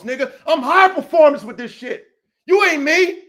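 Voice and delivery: angry callout. Real, not acted. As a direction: bark the warning at him. Heated callout continues.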